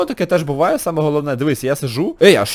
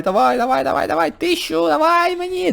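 excited urging; 11 semitones higher than usual. Real, not acted. Urging the score up.

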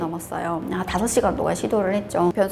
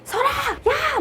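high-pitched imitated yell; guard's shouted halt; much slower than usual. Guards behind her as she crosses, retold shout. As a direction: mimic guards ordering a stop.

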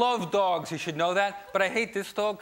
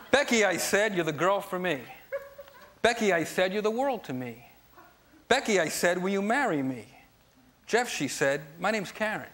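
poem recital. Shown as a demonstration. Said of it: "love poems".

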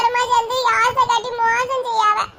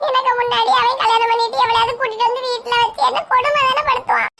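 tearful complaint. Acted. Girl to her friend about her brother, starting to cry. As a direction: voice starting to break into tears.

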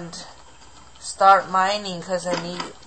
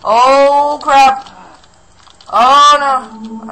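very high, very loud screamed alarm; real shock, yell it out; 8 semitones higher, 13 dB louder, much slower than usual. Real, not acted. Creeper attack in game.

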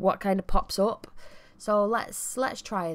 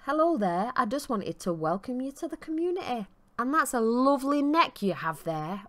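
Vlad; 5 semitones higher than usual. Acted. Voices Vlad greeting the new Sim.

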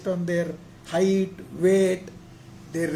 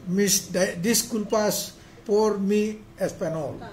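careful, slow Spanish with a foreign accent; slower than usual. Real, not acted. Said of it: "My apologies for my Spanish pronunciation".

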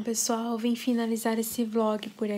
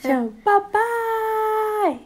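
higher, slow sing-song "Chama o papai"; mother coaxing her baby to say papai, sing-song baby talk; 11 semitones higher, 6 dB louder, much slower than usual. Shown as a demonstration. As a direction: stretch "papai" out high and slow to coax the baby. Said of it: "coaxing baby to say papai".

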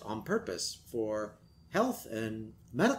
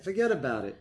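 put-on Brooklyn accent; 3 semitones higher, faster than usual. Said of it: "Brooklyn accent".

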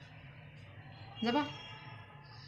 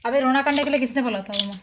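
scolding; 2 semitones higher, 9 dB louder than usual. Real, not acted. Scolds someone about the crying.

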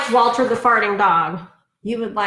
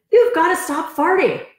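Betty; 9 semitones higher, 3 dB louder than usual. Acted. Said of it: "said Betty".

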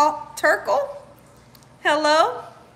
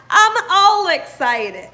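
slow, louder, laughing as she stretches it out; excited, laughing; 3 semitones higher, 5 dB louder, slower than usual. Real, not acted. Host repeating herself for viewers, slow and laughing. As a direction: savour it through a laugh.

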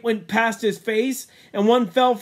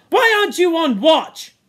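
higher, louder angry question; angry demand; 8 semitones higher, 6 dB louder than usual. Acted. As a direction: scold him for leaving his post. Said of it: "The chief spoke it to him angrily".

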